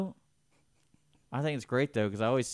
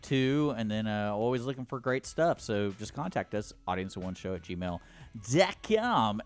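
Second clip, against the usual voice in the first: fake radio voice. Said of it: "radio voice, fake radio voice".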